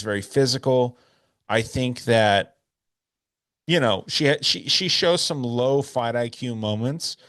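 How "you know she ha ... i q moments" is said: hiccups from whiskey; talking through hiccups; hiccuping. Real, not acted. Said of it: "so I'm hiccuping a little bit".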